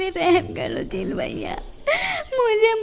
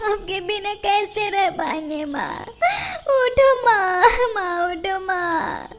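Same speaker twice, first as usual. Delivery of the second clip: softer weeping fading into quiet grief. Acted. Girl beside her dead mother, soft weeping. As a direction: cry quietly as hope fades. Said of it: "और रोने लगती है".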